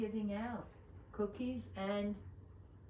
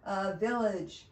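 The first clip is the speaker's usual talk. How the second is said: elf's cry; 5 dB louder than usual. Acted. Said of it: "cried the elf".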